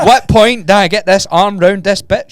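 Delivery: laughing. Real, not acted. Laughing retelling own thoughts.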